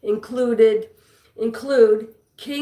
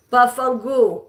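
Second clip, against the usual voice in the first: Italian slang. Shown as a demonstration. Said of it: "Can you speak some Italian".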